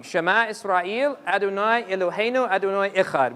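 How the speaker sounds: calm recited Hebrew; recited prayer. Shown as a demonstration. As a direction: intone the prayer line evenly. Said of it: "it says the following".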